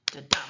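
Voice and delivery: "Da-dum" with a soft "Da" and a hard "dum"; soft then hard beat. Shown as a demonstration. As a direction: tap out "Da-dum" like a heartbeat, weak then strong. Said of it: "a soft beat followed by a hard beat".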